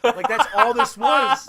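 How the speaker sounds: slow, laughing through the words. Real, not acted. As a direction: laugh it out slowly. Laughing at his own retelling.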